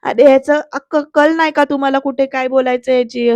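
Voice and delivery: mildly exasperated retold rebuke; irritated scolding. Fed-up Surya telling off his two friends, mildly irritated. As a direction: scold them with a touch of frustration. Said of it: "Surya चिडतो आणि म्हणतो".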